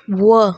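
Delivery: were as WUH, no r; correct pronunciation. Shown as a demonstration. Teacher distinguishing the second word, correctly pronounced. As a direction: say were with a silent final r. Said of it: "आर भी नहीं लगेगा".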